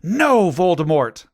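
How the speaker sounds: defiant shout. A narrator's reading. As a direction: shout back at the villain, drawn out. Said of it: "I shouted back".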